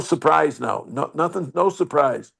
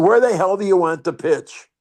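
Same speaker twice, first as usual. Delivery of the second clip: raised, higher call across the field; retold yell; 5 semitones higher, 3 dB louder than usual. Pitcher calling down to Mantle at the plate, mild raised yell. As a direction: call out to the batter, a bit louder. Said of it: "I yell down to Mantle".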